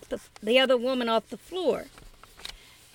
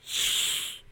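whisper; 5 semitones lower, 9 dB quieter, slower than usual. Acted. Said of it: "the other woman said".

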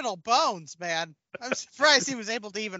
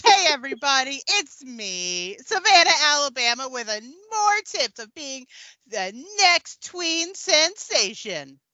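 a hint of a peppy tween vlogger; teen idol character. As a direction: play a perky child celebrity giving vlog tips, lightly. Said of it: "A word from our favorite teen idol".

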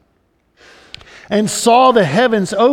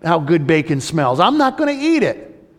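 a touch of indignant refusal, higher pitched; lightly acted protest, rising high at the end; Peter; 6 semitones higher than usual. Good Jewish boy refusing God's order to eat, mild high-pitched protest. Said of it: "Peter, the good Jewish boy, is saying".

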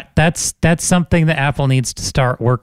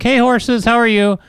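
friendly greeting; 6 semitones higher than usual. Retold or imitated. Teller greets horses over the fence, friendly greeting. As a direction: call a cheery hello to horses.

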